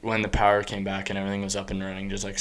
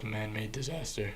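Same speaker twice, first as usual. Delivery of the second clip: voice crack; 14 dB quieter than usual. Real, not acted. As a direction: voice cracking on disaster. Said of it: "Oh, voice crack".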